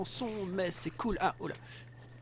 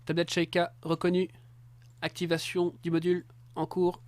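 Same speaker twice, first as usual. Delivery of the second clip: flat robot voice reading a system message. Pretend. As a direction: speak like a robot tablet. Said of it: "je fais une voix de, voix de robot".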